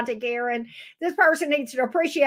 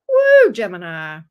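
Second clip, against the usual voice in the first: excited woo; 3 semitones lower, 7 dB louder, slower than usual. Real, not acted. Exclaims at the reading.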